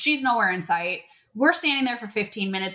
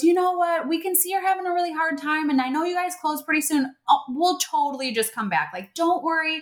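reassuring; 5 semitones higher than usual. Retold or imitated. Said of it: "Anna finally goes".

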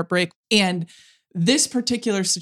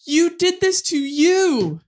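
stunned self-realization; 6 semitones higher than usual. Retold or imitated. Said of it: "and it's like".

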